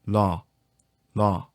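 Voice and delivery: "라" with the tongue dropping off the palate; L release demo. Shown as a demonstration. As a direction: tap "라" with the tongue just behind the upper teeth. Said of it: "떨어집니다".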